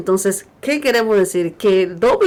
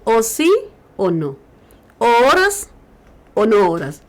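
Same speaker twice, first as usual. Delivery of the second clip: loud, emphatic, punching each either-or; forceful preaching; 4 dB louder than usual. Retold or imitated. Preacher voicing the Lord to the congregation, loud and emphatic. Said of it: "dice el Señor".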